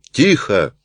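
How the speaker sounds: a touch of a bailiff's bark; mild bark. Acted. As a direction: snap the order without much force. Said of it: "рявкнул судебный пристав". (лёгкий окрик пристава)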